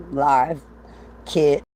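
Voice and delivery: playful British "innit"; mock British accent. Vlogger addressing folks across the pond, mock British accent. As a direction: try a British accent on the tag question. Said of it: "talking to my folks across the pond".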